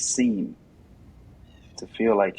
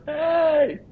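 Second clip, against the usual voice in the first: very high, louder sudden call; mock shout; 6 dB louder than usual. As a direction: snap a quick hey to grab attention. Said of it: "even if I have to yell and curse".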